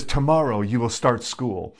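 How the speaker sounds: lightly voiced Greek father, deliberate words; thick Greek accent. Father pulls his little girl aside before school, Greek accent. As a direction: imitate a Greek-accented dad. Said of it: "in his thick Greek accent".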